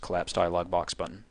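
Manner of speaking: quick run through "collapse dialog box button"; said really fast. Shown as a demonstration. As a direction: rattle the phrase off like a tongue-twister. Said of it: "Say that really fast".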